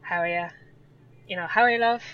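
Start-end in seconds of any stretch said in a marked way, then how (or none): 0.0-0.5 strong Letterkenny accent; Donegal accent. Shown as a demonstration. Irish guest showing how Donegal people talk, strong Donegal accent. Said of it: "strong and Letterkenny and quite". 1.5-2.0 higher, louder Donegal accent. Shown as a demonstration. Irish guest demonstrating Donegal speech to an American, strong Donegal accent. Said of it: "So the Donegal, it becomes quite".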